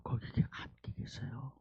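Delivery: soft unvoiced whisper. Real, not acted. Pastor telling of God's presence, hushed whisper. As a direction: draw them close with a hush.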